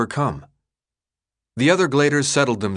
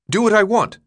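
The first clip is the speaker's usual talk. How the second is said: higher and louder, disbelieving; indignant; 11 semitones higher, 5 dB louder than usual. Acted. Newt throws the leader's words back, indignant and louder.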